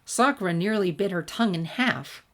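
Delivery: even storytelling read with light character voices; story narration. A narrator's reading. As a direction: read the tale to your listeners. Reads fan fiction aloud.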